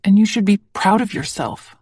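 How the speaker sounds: lightly stressed yourself. A narrator's reading. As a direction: press the word yourself. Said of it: "I emphasize the last word".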